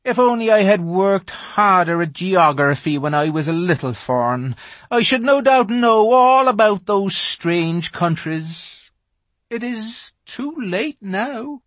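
melancholy. A narrator's reading. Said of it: "in a rather melancholy voice".

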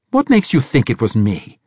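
put-on loud, high defensive old man; blustering. A narrator's reading. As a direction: bluster back indignantly. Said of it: "Braithwaite blustered".

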